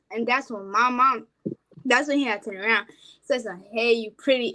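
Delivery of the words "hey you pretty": plain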